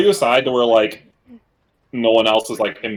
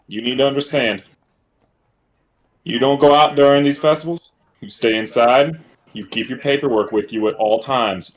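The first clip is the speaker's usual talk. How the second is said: mimicked warning. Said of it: "verbatim repeat what I heard".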